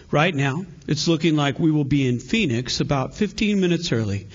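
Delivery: airline captain announcement; calm pilot over the intercom; pilot cockpit headset. Acted. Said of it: "pilot announcement from flight deck".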